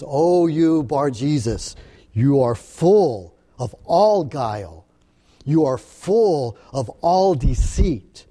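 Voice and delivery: a prophet's stern, deliberate rebuke; emphatic rebuke. Retold or imitated. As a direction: preach it hard, hammering every all. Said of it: "this is emphatic".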